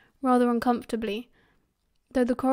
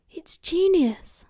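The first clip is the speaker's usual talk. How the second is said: slow, higher, impressed exclamation; whispered excitement; 6 semitones higher, 4 dB louder, much slower than usual. A narrator's reading. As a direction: stretch it out in hushed delight. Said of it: "James whispered".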